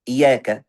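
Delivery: "Iyaka" with a single, undoubled y; without tasydid. Shown as a demonstration. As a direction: say "Iyaka" skipping the held y. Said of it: "tanpa tasydid".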